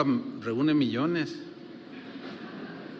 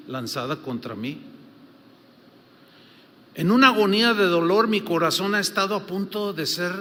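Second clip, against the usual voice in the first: louder, forceful sermon reading; preaching; 4 dB louder than usual. Acted. Pastor reads an old preacher's words to the church, preaching. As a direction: declaim the quote to the congregation.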